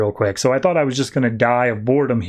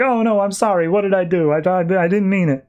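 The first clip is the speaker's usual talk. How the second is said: high-pitched mock panic; retold fretting, higher in pitch; flustered apology; 5 semitones higher than usual. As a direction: act out a hasty, stammered apology. Retold panicked apology after hitting him.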